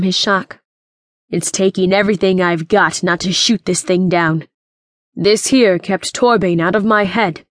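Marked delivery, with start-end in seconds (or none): 1.3-4.5 menacing, restrained growl. Acted. Royce barely holding back from shooting, restrained growl. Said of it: "Royce growled". 5.1-7.5 mildly raised, defensive voice; shouted. Acted. Doctor Evans shouts for himself about his helmet, mild shout. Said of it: "Doctor Evans shouted for himself".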